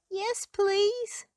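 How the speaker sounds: high, eager happy voice; delighted troll. Acted. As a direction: burst out with joy. Troll accepts friendship.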